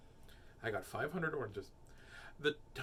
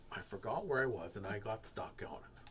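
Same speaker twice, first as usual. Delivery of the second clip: low, soft admission; sheepish excuse; 5 semitones lower, 6 dB quieter than usual. Pretend. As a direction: own up in a low, subdued voice. Sheepish excuse after getting carried away.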